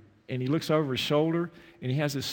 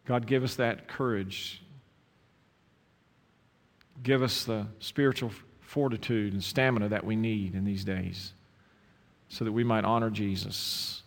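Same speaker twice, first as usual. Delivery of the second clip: closing prayer. Acted. Pastor prays over the bowed congregation, earnest and fervent. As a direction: pray over the church, pleading and building.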